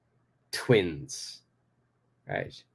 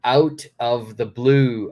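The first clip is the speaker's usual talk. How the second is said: slow model reading; 4 dB louder, slower than usual. Shown as a demonstration. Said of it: "next we've got the idiom".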